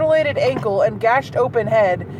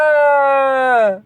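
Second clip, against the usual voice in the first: mock scream; 3 semitones higher, 5 dB louder than usual. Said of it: "Joffrey screamed at the top of his lungs".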